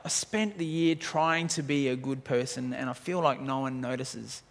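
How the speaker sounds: a discouraged believer asking himself what to do, softly. Acted. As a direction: speak it like someone worn down and unseen. Congregation's discouraged inner voice.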